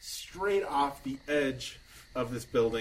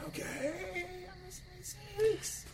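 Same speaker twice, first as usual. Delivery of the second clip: Mister Meeseeks; 8 dB quieter than usual. Acted. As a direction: burst out yelling like an eager cartoon helper.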